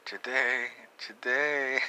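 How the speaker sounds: dad yelling at his slow son to hurry; impatient yell. Retold or imitated. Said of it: "he starts yelling at me".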